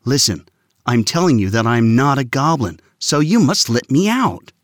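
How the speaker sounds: put-on frustrated boy at the guard. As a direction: press it, losing patience. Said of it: "Alvin was getting frustrated".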